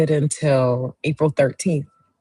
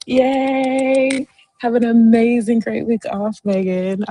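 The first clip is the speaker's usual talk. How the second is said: high-pitched celebratory well-wishing; happy, high congratulations; excited cheer; 8 semitones higher, 4 dB louder, slower than usual. Real, not acted. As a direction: cheer the birthday friend on, voice way up. Cheering after the birthday song.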